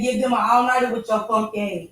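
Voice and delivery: high, mocking read of chat; mocking quote. Reading chat's jab at Shane in a high mocking voice. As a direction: voice the viewer's jab playfully. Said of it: "Kenya said".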